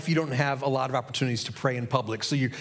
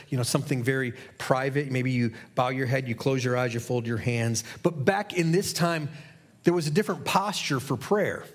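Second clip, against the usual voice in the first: ordinary delivery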